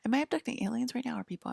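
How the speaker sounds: laughing. Real, not acted. Host laughing at own mix-up, real laughter. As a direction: giggle through the words.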